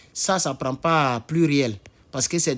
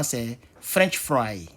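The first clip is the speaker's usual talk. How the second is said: lent et détaché; 3 semitones lower, much slower than usual. Shown as a demonstration. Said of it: "Sinon, normalement".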